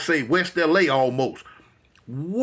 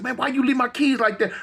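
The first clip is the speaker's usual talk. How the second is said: higher mock-angry complaint; giving it to them; 6 semitones higher than usual. At the police again over the keys, a raised complaint. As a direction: lay into the cops about the keys. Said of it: "now I give it to 'em again".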